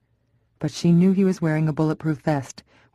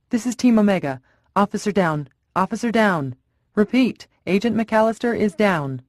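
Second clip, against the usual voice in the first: raised, higher alarmed radio call; officer down call; 5 semitones higher than usual. Acted. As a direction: shout the officer down over the radio.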